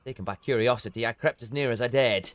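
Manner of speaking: lightly dramatic storybook read; measured narrator voice, a touch of dread; story narration. A narrator's reading. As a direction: tell the grim tale with a hushed weight. Reads quest cutscene narration.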